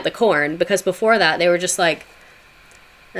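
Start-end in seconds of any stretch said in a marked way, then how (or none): 3.1-3.2 long, drawn-out mock "ah"; imitated groaning noise. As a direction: imitate helpless settlers with one long noise. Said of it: "them making that noise from the Mayflower".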